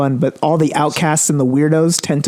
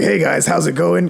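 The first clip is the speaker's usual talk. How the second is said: Batman voice; 2 semitones higher than usual. Retold or imitated. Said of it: "I have to do a Batman voice".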